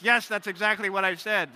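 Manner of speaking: half-joking insistence that he said it right; exasperated. Retold or imitated. Tourist answers the French clerk, mock exasperated.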